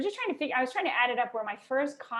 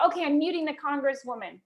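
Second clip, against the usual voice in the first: imitating the host; 5 semitones higher, 5 dB louder than usual. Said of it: "And he'd say".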